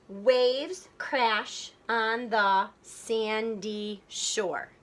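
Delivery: very slow, syllable by syllable; slow syllable-counting read; counting beats. Shown as a demonstration. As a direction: spell out each beat for the class. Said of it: "count the beats of the words".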